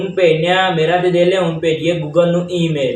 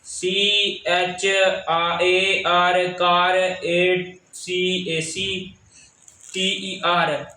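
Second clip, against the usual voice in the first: slow spelling out; 3 dB quieter, much slower than usual. Real, not acted. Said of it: "ਇੱਕ minute ਪੜ੍ਹ ਕੇ ਮੈਂ ਸੁਣਾ".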